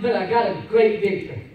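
"great victory" spoken firmly and loud; declared victory. Real, not acted. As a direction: announce it proudly. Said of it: "repeated line".

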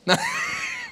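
mock deadness. Shown as a demonstration. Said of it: "are you just already dead?".

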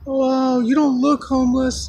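high-pitched retold amazement; imitating surprised woman. Woman doubts the man is homeless, imitated surprise.

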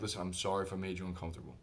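soft, low, quick apology; nice, kind. Retold or imitated. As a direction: apologize gently to calm them. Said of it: "I was being nice, kind".

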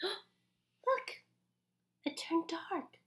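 soft hushed discovery; whispered wonder. Acted. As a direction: share it like a secret.

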